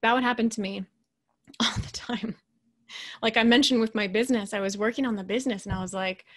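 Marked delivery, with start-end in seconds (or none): 0.0-2.3 laughing half-whisper. Real, not acted. Laughing confession.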